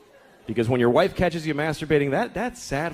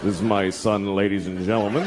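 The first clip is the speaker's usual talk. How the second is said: proud announcer dad; 8 semitones lower than usual. Pretend. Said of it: "name my kid a whole phrase".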